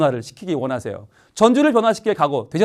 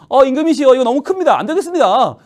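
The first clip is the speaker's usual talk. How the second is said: put-on higher, louder earnest boy voice; polite boy David; 6 semitones higher, 5 dB louder than usual. Young David telling King Saul the armor is too big.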